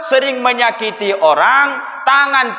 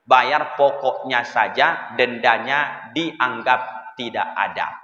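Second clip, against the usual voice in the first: mock public announcement; 8 semitones lower, 3 dB quieter than usual. Preacher mimics the tax office announcing amnesty in an official tone. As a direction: read it out like a district office notice. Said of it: "Samsat Ujung Batu mengumumkan".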